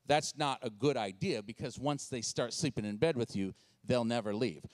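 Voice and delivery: low, slightly softened know-it-all parent voice; mock advice in a low register; judgmental parents. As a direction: lecture like a disapproving parent. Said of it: "some of you parents in this room going".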